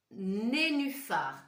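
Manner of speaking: "nénuphar" said slowly and clearly; deliberate naming. Shown as a demonstration. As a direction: draw out "nénuphar". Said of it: "Essayez bien de lire les mots".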